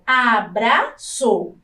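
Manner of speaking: abraçou drawn out slowly as a-bra-çou; syllable by syllable. Shown as a demonstration. Teacher to class, sounding out abraçou slowly by syllables. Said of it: "a mesma palavra".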